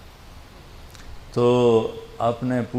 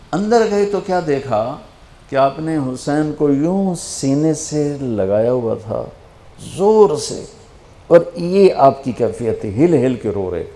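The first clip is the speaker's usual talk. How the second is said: impassioned preaching; 4 semitones higher, 5 dB louder than usual. Real, not acted. Preacher moved to tears telling the Prophet's grief, rising impassioned. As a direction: voice climbing high and loud with feeling. Describing Prophet weeping hard.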